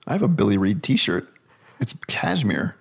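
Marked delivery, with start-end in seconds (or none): 1.8-2.8 whispered aside. Acted. Joking aside about t-shirt.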